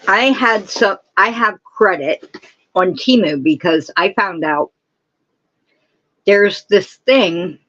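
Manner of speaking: talking around a lozenge; candy in the mouth; mouth full. Real, not acted. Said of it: "Sorry, I'm talking like this".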